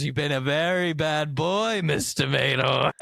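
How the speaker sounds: a hint of a menacing boss; mock stern boss over the intercom. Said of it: "my boss in the back office".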